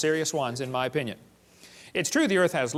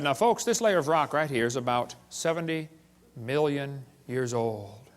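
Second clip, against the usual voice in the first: sanctimonious; 3 semitones lower, slower than usual. Retold or imitated. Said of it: "they always get that sanctimonious tone in their voice".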